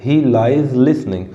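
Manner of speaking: slow, the l sounds stressed; slowly stressed He lies listening; slow demonstration. Shown as a demonstration. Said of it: "ये ल repeat हो रहा है".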